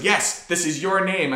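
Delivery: lightly voiced cartoon villain; a hint of sinister cartoon baddie. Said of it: "like a cartoon villain's voice".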